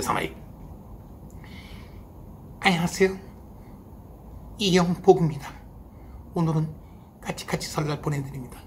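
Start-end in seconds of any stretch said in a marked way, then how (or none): 2.6-8.6 이영복 impression. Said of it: "좋아하는 이영복 선생님 아시죠".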